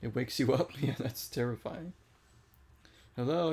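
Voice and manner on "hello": higher, louder imitation of a creepy greeting; mock-eerie questioning call. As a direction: mimic the creepy truck's hello. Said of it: "in, like, a creepy voice".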